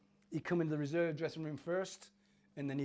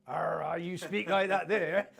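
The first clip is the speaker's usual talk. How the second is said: slow, louder West Country burr, imitating himself; Cornish accent; 7 dB louder, much slower than usual. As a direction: ham up a broad Cornish farm-boy accent. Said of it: "like, I was from Cornwall".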